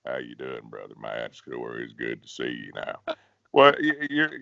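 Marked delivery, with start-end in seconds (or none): 0.1-3.0 mock bass singer voice pushed far lower and softer; fake low bass talk. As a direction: ham up a bass singer showing off his low voice. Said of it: "when they're talking like that".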